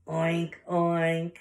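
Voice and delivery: two loud spoken pig oinks. Acted. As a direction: imitate a pig, oinking firmly twice. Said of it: "And the pig says".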